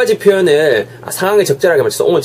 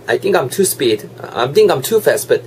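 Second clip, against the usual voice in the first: rushed speech; much slower than usual. Real, not acted. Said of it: "오늘 말이 완전 빠른데요".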